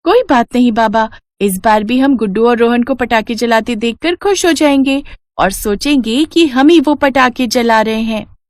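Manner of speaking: put-on a little child hiding disappointment.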